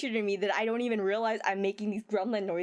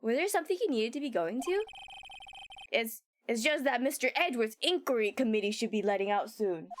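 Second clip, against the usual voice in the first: Gumshoe voice. Acted. Gumshoe protesting to his pal, lightly voiced detective. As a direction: play the hurt, chummy detective, lightly. Reading Gumshoe's game lines aloud.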